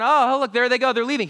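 mock lookout calling out; mock gatekeeper. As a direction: play a silly lookout spotting them leave. Mocking king at the gate.

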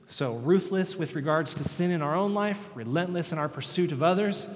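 loud, driving preacher's recap; forceful preaching. Acted.

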